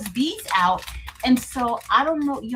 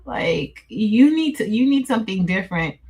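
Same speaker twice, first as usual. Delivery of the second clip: best friend's advice; 3 dB louder than usual. Retold or imitated. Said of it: "She be like".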